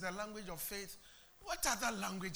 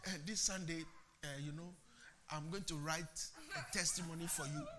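much softer, lower secretive coaxing; hushed conspiratorial aside; 4 semitones lower, 7 dB quieter, faster than usual. Retold or imitated. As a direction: whisper a shady deal. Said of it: "Nobody tells anybody".

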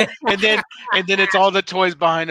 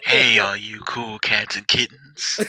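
creepy greeting; 5 semitones lower, slower than usual. Pretend.

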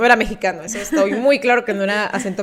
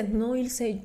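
put-on Candy dub accent; 2 semitones higher, 12 dB louder than usual. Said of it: "según yo hablaba con Candy Candy".

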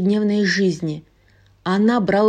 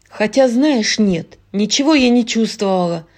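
rattling off; 4 dB louder than usual. Acted. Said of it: "затараторила Луиза".

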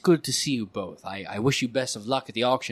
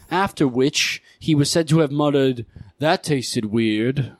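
auctioneer voice; 2 semitones higher, 5 dB louder than usual. Acted.

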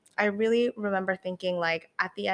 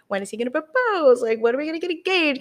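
higher, quicker mock-eager questions; impatient wondering; 7 semitones higher, 6 dB louder, faster than usual. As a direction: pester herself playfully, higher and faster. Mock-impatient questions about proposal.

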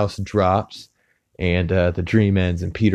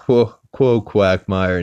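louder, eager whoa whoa; excited greeting; 4 dB louder, slower than usual. Retold or imitated. Peter hails Quagmire with a louder eager whoa. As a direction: call out to a buddy with glee.

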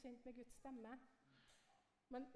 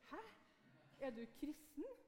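surprised; 4 semitones higher, 3 dB louder than usual. Retold or imitated. Surprise at the woman's reply.

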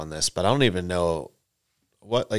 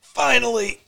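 mock orgasmic; 3 dB louder, slower than usual. Mocking the moaning.

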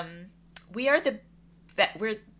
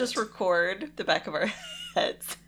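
laughing. Real, not acted. Joking suggestion while laughing.

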